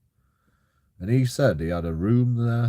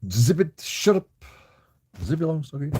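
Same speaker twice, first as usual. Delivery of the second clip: sharp, louder, higher shushing; snapping at someone; 6 semitones higher, 4 dB louder than usual. Real, not acted. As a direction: cut them off loudly. Telling someone to be quiet.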